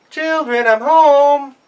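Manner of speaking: very high, loud, syrupy fake mom; wolf hamming up mother; sweetest voice. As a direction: lay on the sweetness. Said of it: "in his sweetest voice".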